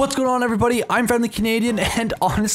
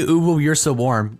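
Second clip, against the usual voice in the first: uwu voice; 4 semitones lower than usual. Shown as a demonstration. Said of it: "I have to speak uwu for one minute".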